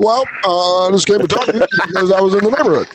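Barack Obama. Retold or imitated. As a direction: rattle off a bad politician impression. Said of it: "President Barack Obama".

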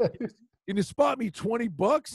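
slow, drawn-out request; lightly voiced player asking the trainer for cash; a mild pleading ask; asking a favor. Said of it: "He goes".

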